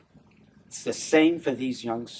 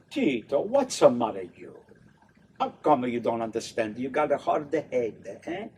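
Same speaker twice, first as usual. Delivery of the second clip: a hammed-up Italian-American accent, choppy; mild mock Italian accent, stage-Italian lilt. Shown as a demonstration. Director showing a cast the wrong Italian accent. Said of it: "the Italians don't speak, you know, like that".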